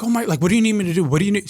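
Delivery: high, rushed imitation of a thrilled client; excited client. Client eager to help after good news, excited.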